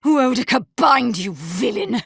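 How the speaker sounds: high, distraught exclamation; agitated outcry. Acted. Haunted figure reliving her command, agitated. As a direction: cry out the command in torment.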